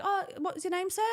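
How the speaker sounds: high, sweet hostess politeness. Retold or imitated. Hostess greeting a rude diner, high and sweet. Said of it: "she was like".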